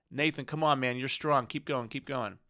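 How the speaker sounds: put-on rally a crying kid like his coach; coach encouragement. Father coaching crying son mid-roll.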